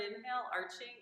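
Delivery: inhale and arching lifted, rising tune; rising breath cue. Shown as a demonstration. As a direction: cue inhale upward as you arch. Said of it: "cueing the breath".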